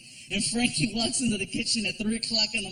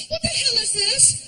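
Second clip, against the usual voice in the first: much higher, indignant woman's voice; girlfriend voice; 13 semitones higher than usual. Retold or imitated. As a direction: play the shocked girlfriend, pitched way up.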